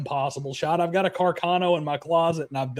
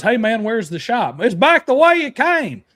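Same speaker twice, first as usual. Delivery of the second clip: lightly voiced locals; 7 semitones higher, 6 dB louder than usual. Voicing a backwoods exchange.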